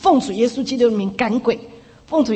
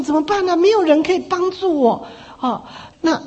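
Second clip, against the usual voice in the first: mild mock panic, pitched higher; retold fright; 4 semitones higher than usual. Frightened sister thinks nobody can help her, retold mild panic. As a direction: retell her helpless fright in a raised pitch. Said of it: "这个姊妹就吓得不得了了".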